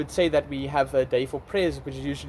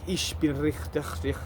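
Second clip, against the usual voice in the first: imitated guttural Russian gibberish; mock Russian; 3 dB quieter than usual. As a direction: fake some throaty Russian words. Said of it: "in Russian".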